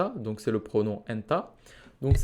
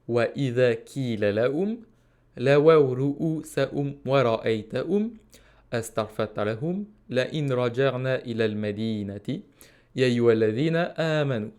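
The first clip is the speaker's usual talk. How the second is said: Quranic recitation. Shown as a demonstration. Teacher reciting the verse to the class, measured.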